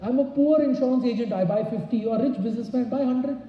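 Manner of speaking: emphatic sales close; pushy pitch. Shown as a demonstration. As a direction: lift the voice and press him to buy. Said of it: "I tell them".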